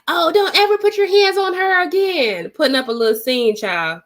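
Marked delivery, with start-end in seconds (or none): 0.1-2.5 retold yell. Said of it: "she yells at the man".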